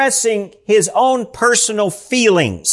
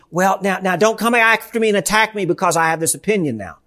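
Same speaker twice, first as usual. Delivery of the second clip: defensive insecurity; faster than usual. Pretend. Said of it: "It's communicating insecurity".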